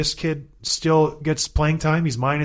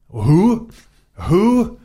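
incredulous who; 4 semitones higher, 6 dB louder than usual. Real, not acted. Scanning a weak team lineup.

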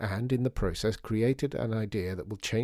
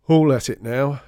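grumbled; 3 semitones higher, 10 dB louder than usual. Acted. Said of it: "he grumbled".

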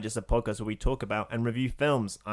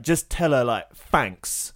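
passive aggressive; 6 dB louder, much slower than usual. Retold or imitated. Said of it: "a bit of a passive aggressive".

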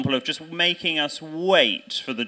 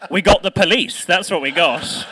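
laughing indignation; 4 semitones higher, 8 dB louder than usual. Real, not acted.

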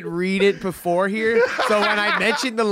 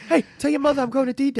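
Wahlberg impression; 5 semitones higher, faster than usual.

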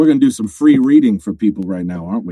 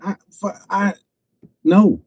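flustered refusal; 10 semitones higher, slower than usual. Retold or imitated. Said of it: "I'm like".

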